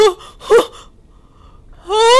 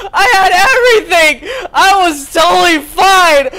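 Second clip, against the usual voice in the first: frustrated rant. Real, not acted. Player caught near the exit, frustrated half-laughing rant. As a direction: vent about being robbed of the win. Caught just before escaping.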